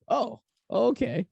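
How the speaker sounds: drawn-out, dopey oh okay; slow dazed okay. Retold or imitated. Stoned guest drawling to his buddy, slow and dazed. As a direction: stretch it out, high and stoned. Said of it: "I'm like".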